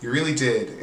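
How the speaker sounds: high, fast whiny accusation; mocking Britt. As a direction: needle her like a petty grudge-holder. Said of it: "and she's like".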